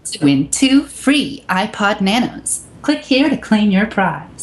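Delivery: high, slow cheesy prize announcer; scam pop-up ad. Pretend. Mocking a pop-up ad for the podcast friends, high and slow. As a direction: sell the fake prize with a big fake grin. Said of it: "what that reminded me of".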